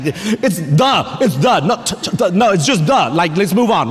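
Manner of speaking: impatient, sounding out duh; hammed-up exasperated dad teaching reading; a touch of frustrated impatience; mock frustrated. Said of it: "I'm all frustrated".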